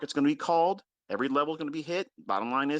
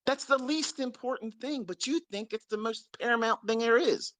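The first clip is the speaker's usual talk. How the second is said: "least" dito bem mais agudo, subindo; higher, louder repeat; 7 semitones higher than usual. Shown as a demonstration. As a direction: repete mais alto e exasperado.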